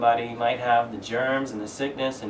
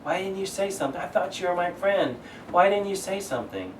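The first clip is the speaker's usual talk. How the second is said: higher, pained plea from a let-down friend; hurt friend; 6 semitones higher than usual. Retold or imitated. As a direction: ask it as if betrayed by a friend. Hurt friend asking why no warning.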